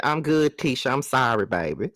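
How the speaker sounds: playful Mississippi-accent impression; Latrice. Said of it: "Them Mississippi accents are so sexy".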